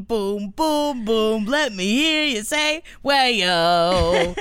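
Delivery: hyped crowd warm up. Acted. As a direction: pump up the crowd. DJ hype call repeated.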